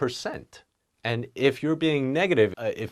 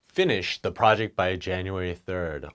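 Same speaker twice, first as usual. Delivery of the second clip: a blunt boss order; direct command; 4 semitones lower than usual. Shown as a demonstration. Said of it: "It's pretty direct".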